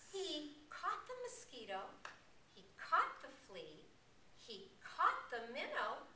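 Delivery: rhythmic, singsong recital with swooping pitch; bouncy nursery rhyme for little ones; children's action rhyme. Shown as a demonstration.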